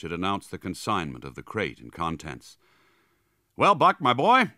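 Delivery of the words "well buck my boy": high, loud, hearty greeting; jovial and friendly, pitched up; genial voice. A narrator's reading. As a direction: hail the dog like an old pal. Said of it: "he went on in a genial voice".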